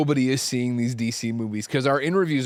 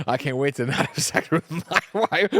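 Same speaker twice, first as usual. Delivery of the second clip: sitcom husband quote; 3 semitones higher than usual. Retold or imitated. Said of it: "cracking the fuck up at Nick Scarpino with the".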